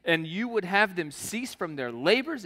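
preacher reading Exodus aloud; scripture reading. Acted. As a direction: read the passage to the congregation. Reads scripture passage aloud.

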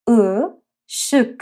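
اشک stretched very slowly; slow syllable demo. Shown as a demonstration. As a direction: drag out اشک slowly for learners. (اشک آهسته و کشیده)

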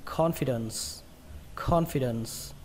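CONFIDENCE ending on a clear S; final S. Shown as a demonstration. Teacher reminding learners of the ending, final S. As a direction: finish "confidence" with a hissed S. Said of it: "kết thúc bằng âm sờ nhé".

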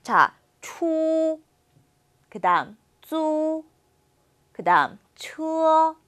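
추, 쭈, 추어 each stretched slowly and high; syllable demo of chū and zū; sound-by-sound demo. Shown as a demonstration. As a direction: break the word into its syllables slowly. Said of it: "발음은 좀 주의해 주셔야".

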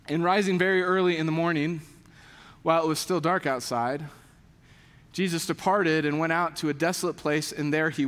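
low-pitched scripture recitation; scripture reading. Acted. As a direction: read the verse out solemnly, with pauses. Reads scripture to congregation.

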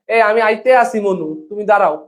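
put-on a light Barishal accent, casual; Barishal dialect. Teacher to students, a light Barishal accent. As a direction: mimic the Barishal way of speaking, lightly. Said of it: "এরকম ভাবে কথা বলে না?".

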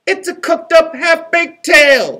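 put-on a sharp little retort from the gingerbread boy; snapping. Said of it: "snapped the gingerbread boy".

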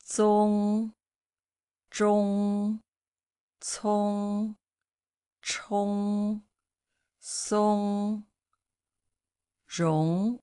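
zong zhong cong chong song rong, each clearly said; Mandarin syllable drill. Shown as a demonstration. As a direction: model each syllable for the class. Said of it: "Listen, please".

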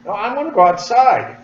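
high, loud mock-scared whine; mock panic. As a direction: play at being frightened. Joking fear of the pouch exploding.

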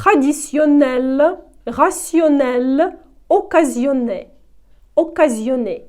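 traditionnel, rationnel, occasionné slow, each N a plain consonant; nasal sound gone. Shown as a demonstration. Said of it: "носовий звук зникає".

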